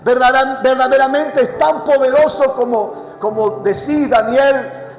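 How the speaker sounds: king at the lions' den calling out; king calling sadly. Acted. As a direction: draw out the king's desperate question. Voicing the grieving king's call.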